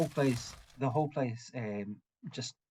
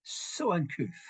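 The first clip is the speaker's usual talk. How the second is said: higher, slow, disapproving huff; scandalized woman; 5 semitones higher, slower than usual. Retold or imitated. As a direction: look down your nose at the rude drunk. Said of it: "shouts up in your ear".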